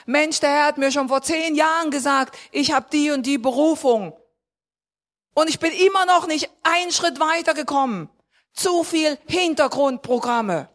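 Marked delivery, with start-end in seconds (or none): 0.1-8.1 raised, indignant plea, building higher; frustrated complaint. Acted. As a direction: complain like a believer tired of waiting. Acted complaint of a frustrated believer. (frustrierte, aufgebrachte Klage)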